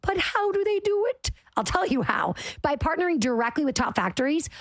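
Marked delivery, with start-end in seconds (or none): 0.0-1.3 scripted ad question. Acted. Ad setup, asking a sidekick.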